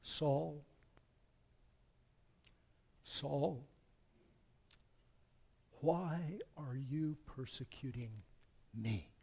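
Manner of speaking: tender plea. Acted. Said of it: "so filled with love".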